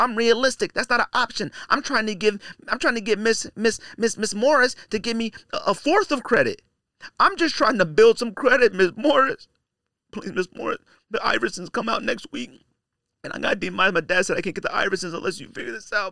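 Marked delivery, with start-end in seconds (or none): 8.7-16.1 choked-up, tearful, begging voice. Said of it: "You start getting choked up".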